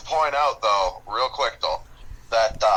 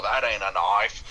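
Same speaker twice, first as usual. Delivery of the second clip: slow mock Australian movie line; Crocodile Dundee; 4 semitones lower than usual. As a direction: draw it out in a put-on Aussie accent. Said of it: "quintessential Crocodile Dundee line".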